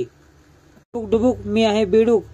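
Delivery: slow, childlike sing-song, lightly voiced; lightly acted mad chant; feigned madness. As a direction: play the madwoman babbling in the water, drawn out slowly. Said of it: "पाण्यामध्ये बोलत राहते".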